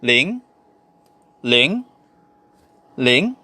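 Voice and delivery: "ling" swept upward like a question; Mandarin pronunciation. Shown as a demonstration. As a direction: say "ling" with a second-tone lift. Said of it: "It's pronounced as".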